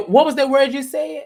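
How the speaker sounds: mock her through a laugh; laughing quote. Quoting Bree to a co-host, laughing. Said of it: "She said".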